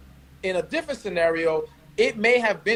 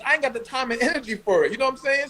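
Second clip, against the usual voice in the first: quick, strong Northern New York accent; 5 semitones higher, much faster than usual. Real, not acted. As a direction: let the New York come out, fast and insistent. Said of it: "That Northern came out strong".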